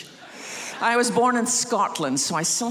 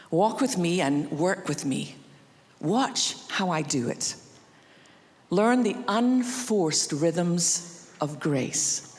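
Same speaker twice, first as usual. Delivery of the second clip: scripture reading. Acted. Pastor reading Matthew eleven to the congregation, slow and gentle. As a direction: read the invitation gently, letting it land.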